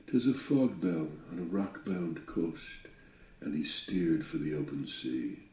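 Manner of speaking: measured, dramatic recitation of a ballad; poem reading. A narrator's reading. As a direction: read it like an old sea ballad. Reads Longfellow poem aloud.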